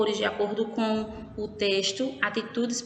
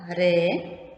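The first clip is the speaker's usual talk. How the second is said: "ré" set apart, open and drawn out; stressed syllable; 3 semitones lower, 3 dB louder than usual. Shown as a demonstration. Teacher singling out the accented syllable, stressed and open. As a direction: lean on "ré" with an open é. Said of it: "ela é uma sílaba forte".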